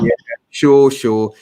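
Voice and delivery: brushing off a know-it-all stranger; a touch of sarcastic disbelief; sceptical. Retold or imitated. Doubting the stranger's boast.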